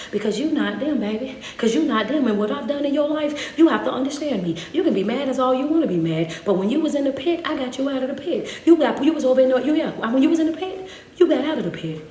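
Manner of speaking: preached as God talking straight to the listener, rising and falling in force; preacher voicing God. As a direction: speak as God reminding his child who carried them. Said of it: "I was just telling you how I think that God was talking to him".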